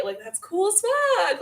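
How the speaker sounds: high, drawn-out awe; retold amazement. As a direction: stretch it out high, acting amazed. Retells amazement at the portal.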